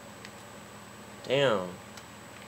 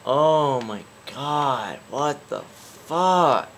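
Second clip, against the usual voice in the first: loud, raised-pitch fed-up outburst; exasperated giving up; 4 semitones higher, 5 dB louder than usual. Real, not acted. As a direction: wail at the game, then storm off. Fed-up gamer quits the video.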